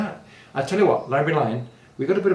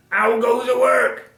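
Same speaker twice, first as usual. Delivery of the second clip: calling farmer; 10 semitones higher, 6 dB louder than usual. A narrator's reading. Farmer's repeated call in story.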